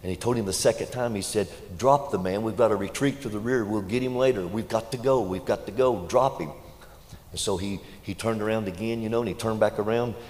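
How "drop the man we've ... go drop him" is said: louder sergeant's command to drop the man; urgent battlefield order, raised voice; barked order. Retold or imitated. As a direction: bark it like a sergeant under fire.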